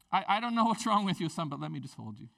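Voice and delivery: mother gently comforting her son; tender mom. Retold or imitated. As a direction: hold him and soothe.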